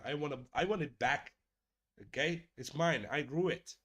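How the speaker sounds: hammed-up indignant insistence; mock outrage. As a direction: demand it back in playful indignation. Mock outrage over taken bone.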